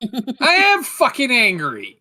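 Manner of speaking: slow, loud, half-laughing admission of anger; laughing angry. Real, not acted. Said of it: "You sound very angry".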